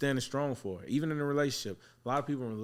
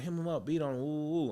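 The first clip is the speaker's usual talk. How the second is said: lightly voiced mom in higher pitch; higher, insistent retelling of a parent's order; retold mom; 5 semitones higher than usual. Mom telling the barber to discipline her son, higher-pitched retelling. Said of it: "his mom was like".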